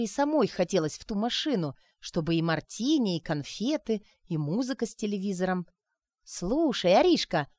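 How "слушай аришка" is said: high, loud delighted exclaim. Acted. Sonechka exclaiming to Arina, delighted. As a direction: burst out with delight. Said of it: "воскликнула она".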